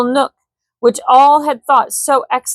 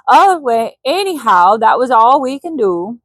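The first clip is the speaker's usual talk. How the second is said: put-on Swedish accent; 2 semitones higher than usual. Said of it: "didn't do his accent".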